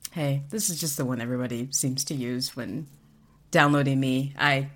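loud laid-back dude, laughing; relaxed bro chatter; casual voice. Pretend. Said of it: "casual voice module".

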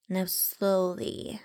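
drawn-out coaxing words; slow, gentle instruction. Acted. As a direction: ease the words out slowly. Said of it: "I said to him".

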